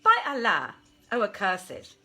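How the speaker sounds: loud, contemptuous cry; scornful outburst. Acted. Maymunah mocking the Ifrit's tale, loud scornful shout. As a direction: hurl the insult with full force.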